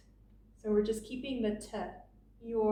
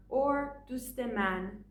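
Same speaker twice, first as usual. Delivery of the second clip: dust man said slowly and apart; slow careful Persian; slow full form; much slower than usual. Shown as a demonstration.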